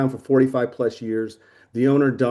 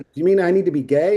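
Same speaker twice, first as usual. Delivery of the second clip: incredulous; 5 semitones higher, 4 dB louder than usual. Retold or imitated. Incredulous question to boss.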